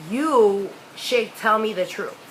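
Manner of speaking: slow, deliberate confrontation; drawn-out warning to a child; slow maternal demand. Retold or imitated. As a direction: imitate a mother spacing out her demand. Mother confronts child, measured demand.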